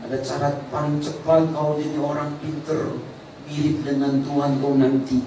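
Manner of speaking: a soft, sly tempter's coax; lightly voiced devil luring Eve; hushed, wheedling serpent offering the fruit; devil tempting Eve. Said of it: "mau dipercepat oleh iblis".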